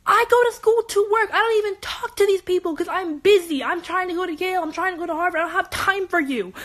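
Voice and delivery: fed up, venting at the bullies; exasperated rant. Retold or imitated. Angry retelling of her rant.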